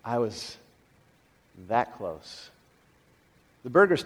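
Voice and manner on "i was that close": shaken hush. Retold or imitated. Brother-in-law recalling the bull, hushed and shaken. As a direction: voice drops away to a near-hush. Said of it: "like, going".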